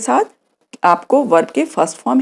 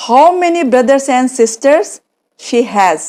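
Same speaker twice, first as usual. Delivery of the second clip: slow acted question; 3 semitones higher, much slower than usual. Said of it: "मैंने पूछा".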